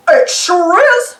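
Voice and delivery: slow, loud boastful drawl; proud Goofy. Acted. Goofy boasts to Louie about firefighting: slow proud drawl. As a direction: puff up and say it slowly. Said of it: "Goofy responded proudly".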